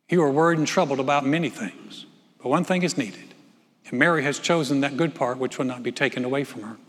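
measured Bible reading from the pulpit; preacher reading Luke to his church; scripture reading. Acted. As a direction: read the passage aloud to the congregation. Reads the Luke passage aloud.

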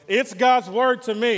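slow, loud, high declaration; triumphant. Acted. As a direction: proclaim it in victory. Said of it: "say it like we're victorious".

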